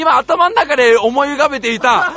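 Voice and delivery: high, loud, laughing "now I get it"; excited recognition. Real, not acted. Finally picturing the game, excited shout. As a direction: shout it out as it clicks.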